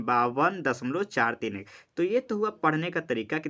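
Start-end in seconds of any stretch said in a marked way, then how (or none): 0.0-1.7 slow, digits "चार तीन एक" said one by one; measured teacher demo; slow digit reading. Shown as a demonstration. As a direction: read each digit apart, not as four hundred thirty-one. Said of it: "चार सौ इकतीस नहीं".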